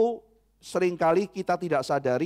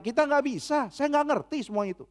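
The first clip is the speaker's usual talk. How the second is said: honest admission; 8 semitones higher than usual. Acted. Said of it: "Dan kita harus bilang".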